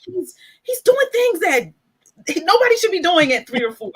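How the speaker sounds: high, loud imitation of disbelief; retold amazement. Retold teacher's amazed remark.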